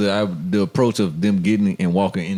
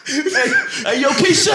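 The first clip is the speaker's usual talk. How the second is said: high laughing yell across the street; calling from far away; 4 dB louder, slower than usual. Pretend. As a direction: holler her name across the road. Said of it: "you gotta yell over there".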